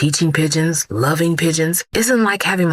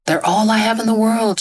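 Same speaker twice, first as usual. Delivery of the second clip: weeping plea; 6 semitones higher than usual. Acted. Old woman begging for her stolen belongings, tearfully. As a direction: beg through mild tears for her things. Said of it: "she wept".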